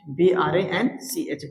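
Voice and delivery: slow spelling of branch. Shown as a demonstration. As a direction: spell B R A N C H slowly letter by letter. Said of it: "इसी को हम बोलते हैं ब्रांच".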